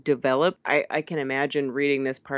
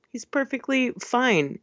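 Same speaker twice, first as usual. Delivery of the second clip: higher-pitched, mock-reassuring; in air quotes; 8 semitones higher than usual. Podcaster doubting a character is okay, ironic air quotes. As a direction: say it as if in quotation marks. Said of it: "in quotations".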